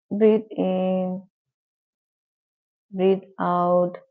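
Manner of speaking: slow, measured breathing cues; guided meditation. Shown as a demonstration. Teacher leading students through breathing, slow guided meditation. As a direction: pace each cue slowly, with long pauses.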